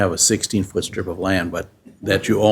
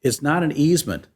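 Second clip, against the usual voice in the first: a bit louder and clearer for her; to someone hard of hearing; 4 semitones higher than usual. Real, not acted. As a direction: raise the voice so she can hear. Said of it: "Could you speak louder, please?".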